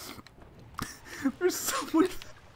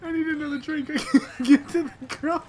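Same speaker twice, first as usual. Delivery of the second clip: laughing; 6 semitones lower, faster than usual. Real, not acted. Still laughing.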